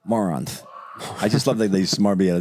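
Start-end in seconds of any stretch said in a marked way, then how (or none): 0.1-0.6 lisp impression. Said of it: "It's that lisp".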